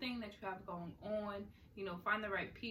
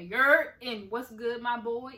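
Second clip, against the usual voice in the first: mock Jersey slang; 3 semitones higher, 13 dB louder, slower than usual. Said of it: "They say".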